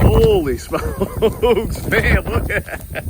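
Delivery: slow, loud, amazed holy smokes; a real gasp of awe at the snowfall. Real, not acted. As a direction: let the wonder stretch the words out.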